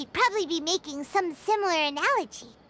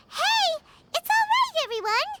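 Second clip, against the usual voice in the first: calling out; 9 semitones higher than usual. Acted. Calling to shy crowd.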